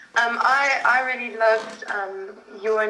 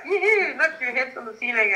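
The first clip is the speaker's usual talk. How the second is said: playful whoop; 2 semitones higher than usual. Retold or imitated. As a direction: mimic a dad whooping in play. Acting out playful dad.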